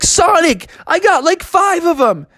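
high, excited bragging; thrilled Froggy. Acted. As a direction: report a win in delight. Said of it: "He was like".

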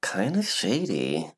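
slow, swooping pitch on both words; surprised. Pretend. Co-host introduces this week's slightly shady news, mock surprised. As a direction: draw it out in playful surprise. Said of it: "such surprise in your voice".

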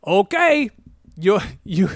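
put-on high, loud hammy German accent; over-the-top German-accented announcement; Jack Black's bad German. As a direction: play an excitable fake German scientist. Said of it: "doing a German impression".

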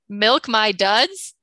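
laughing question, drawn out slowly; laughing disbelief. Real, not acted. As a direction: repeat it back with a laugh, baffled.

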